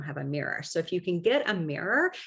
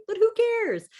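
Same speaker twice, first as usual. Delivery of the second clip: who cares; 5 dB louder than usual. Real, not acted. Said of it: "dismissive reassurance".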